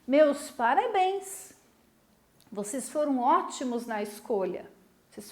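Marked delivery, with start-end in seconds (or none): 0.1-1.5 pleased. Shown as a demonstration. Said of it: "Como é que eu me sinto? Alegres".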